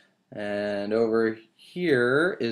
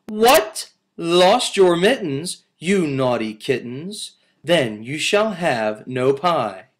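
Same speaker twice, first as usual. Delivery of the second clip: scolding mother cat; 3 semitones higher, 5 dB louder than usual. Acted.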